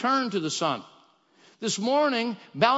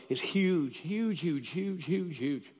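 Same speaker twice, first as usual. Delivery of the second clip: awed hush; 4 semitones lower, 6 dB quieter, slower than usual. Retold or imitated. Overwhelmed by the prophetic vision.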